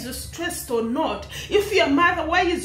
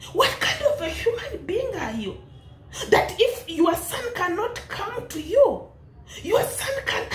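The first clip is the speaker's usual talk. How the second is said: laughing scold; 6 semitones higher than usual. Real, not acted.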